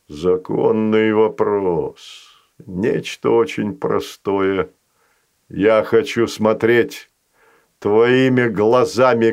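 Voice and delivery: a patient creature striking a deal; slow sly monster voice. Acted. Fazanol voice.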